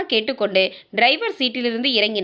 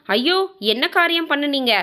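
higher-pitched, mildly acted dismay; dismayed alarm; 5 semitones higher than usual. Wife learning her husband closed the company, dismayed alarm. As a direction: exclaim in lightly dramatized shock.

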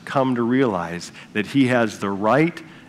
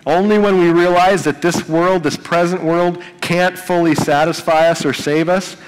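rising preaching fervor; 4 semitones higher, 3 dB louder than usual. Real, not acted. Pastor urging his congregation to hope, impassioned and louder. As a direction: preach it louder and higher, pressing the point.

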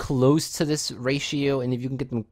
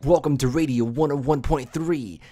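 lightly put-on radio station voiceover; a hint of booming radio host; radio announcer imitation; 2 semitones higher, 3 dB louder than usual. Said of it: "really kind of deep and, like, really echoey".

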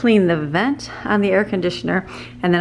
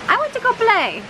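voicing the dog; 13 semitones higher than usual. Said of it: "Ruby says".

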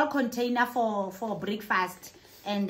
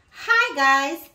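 loud, higher-pitched hello to fans; excited greeting; 3 semitones higher, 5 dB louder than usual. Real, not acted. Vlogger greets five thousand new subscribers, excited. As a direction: greet them with a burst of energy.

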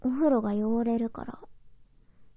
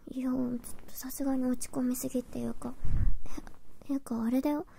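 whispering; faster than usual. Acted. Whispers most lines.

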